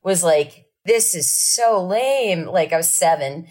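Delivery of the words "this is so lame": slow, drawn-out sulky line; bored kid. Retold or imitated. Mimicking bored kid at a family band's show, slow and sulky. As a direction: sound like a bored seven-year-old.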